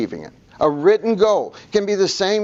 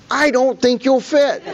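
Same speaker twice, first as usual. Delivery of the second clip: laughing joke; 9 semitones higher, 4 dB louder, slower than usual. Retold or imitated. Joking to tall drunk friend.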